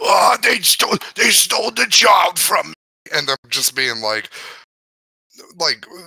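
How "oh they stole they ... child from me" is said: very high, squeaky voice. Comparing the situation to a scene, imitating Watto after losing a bet. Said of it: "Watto going into the fucking cantina ... being like".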